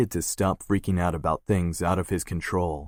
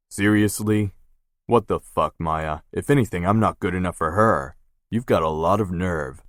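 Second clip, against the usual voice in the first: louder, offended disbelief; indignant; 4 dB louder than usual. Acted. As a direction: take real offense. Brother offended by sister.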